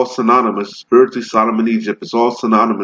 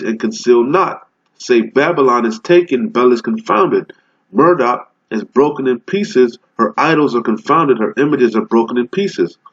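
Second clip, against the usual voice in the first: scripture reading. Acted. Proclaims scripture, raised.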